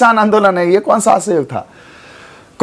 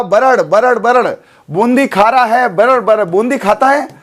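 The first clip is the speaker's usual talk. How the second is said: put-on बरड़ बरड़ as a child's babble; imitated babbling sound. Shown as a demonstration. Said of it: "आवाज निकल बड़र बड़र बोल रहा". (बच्चे की बड़बड़ाहट की नकल)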